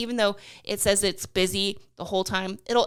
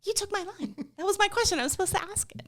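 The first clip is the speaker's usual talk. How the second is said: mock indignant; 10 semitones higher, 4 dB quieter, much faster than usual. Co-host mock complains line stolen.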